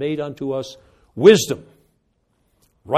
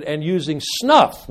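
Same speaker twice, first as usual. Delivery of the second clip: mock preacher shout; 5 dB louder, slower than usual. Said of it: "when he shouted".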